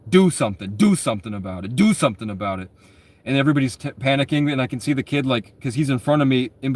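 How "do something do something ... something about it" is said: low menacing threat. Retold or imitated. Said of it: "he's, like, telling these kids".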